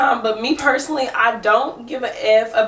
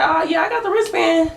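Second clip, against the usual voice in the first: mom's sassy answer; 7 semitones higher than usual. Retold or imitated. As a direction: toss it back with sass. Mom answers loudly.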